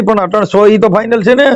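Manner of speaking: ordinary delivery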